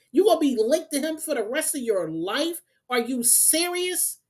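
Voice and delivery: can't believe you'd put up with him; heated disbelief. Real, not acted. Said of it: "I didn't have this emotion".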